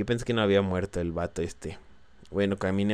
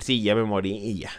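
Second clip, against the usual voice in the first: mock offhand. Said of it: "yo voy a hablar y voy a decir".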